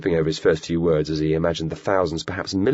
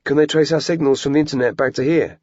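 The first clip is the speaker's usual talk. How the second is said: put-on higher, worried young boy's voice; boy asking nervously, higher and louder; 8 semitones higher, 4 dB louder than usual. A narrator's reading. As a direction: ask it as an anxious kid.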